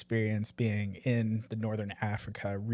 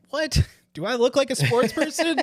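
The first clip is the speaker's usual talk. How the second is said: high, loud mock disbelief with a laugh; incredulous; 13 semitones higher, 5 dB louder than usual. Told it's a sports trip, replies in laughing disbelief. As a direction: act shocked he'd be called sporty. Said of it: "And I'm like".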